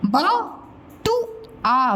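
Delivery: बटुआ drawn out; very slow. Shown as a demonstration. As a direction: stretch बटुआ for the class. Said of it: "teacher models word slowly".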